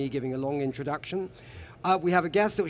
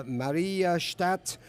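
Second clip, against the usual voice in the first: German-accented name; 2 semitones higher, much slower than usual. Shown as a demonstration. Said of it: "I say it more with a German accent".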